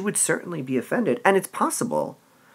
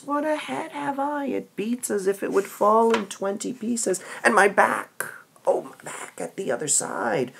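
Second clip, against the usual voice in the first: higher, hammed-up aching nurse; complaining nurse; 3 semitones higher than usual. Teacher voices the nurse milking her aches. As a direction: moan about your head and back.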